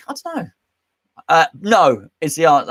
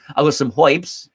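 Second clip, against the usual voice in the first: New York accent. Shown as a demonstration. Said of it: "That's how they say herbs in New York".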